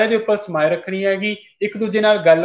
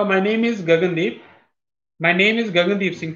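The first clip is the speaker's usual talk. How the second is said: confident introduction; slower than usual. Shown as a demonstration. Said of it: "ਮੈਂ ਬੋਲੂੰਗਾ".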